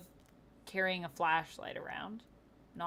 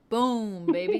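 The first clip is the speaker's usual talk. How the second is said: loud hype shout; hyped up; 4 semitones higher, 9 dB louder, slower than usual. Pretend. Hyped mixtape callout.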